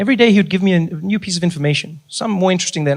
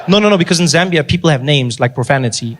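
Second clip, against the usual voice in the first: Ali Nani. Acted. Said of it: "His name was Ali Nani".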